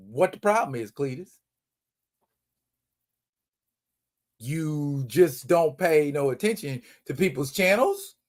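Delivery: condescending, patronizing tone laden with sarcasm. Addressing viewers who don't notice new videos: condescending and sarcastic. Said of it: "I know I sound condescending and sarcastic".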